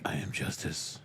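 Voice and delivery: low, soft whispered villain; Bane. Acted. Friends ask for the villain, low whispered Bane impersonation. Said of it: "Now do Bane".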